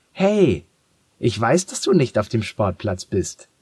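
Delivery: laut und hoch durch die Tür gerufen; lauter Ruf. Acted. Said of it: "tönt ihre Stimme durch die Türe". (Mädchen ruft empört durch die Haustür)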